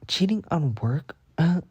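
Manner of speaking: mock-offended student arguing innocence; incredulous retort. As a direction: protest the accusation, high and outraged. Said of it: "I'm like".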